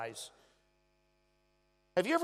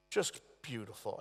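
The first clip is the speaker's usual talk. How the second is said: soft echo; 5 semitones lower, 5 dB quieter than usual. Real, not acted. Echoes softly.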